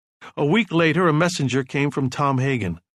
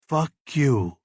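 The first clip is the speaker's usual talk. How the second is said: gentle. Acted. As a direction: say it gently, like to an old friend. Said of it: "he said gently".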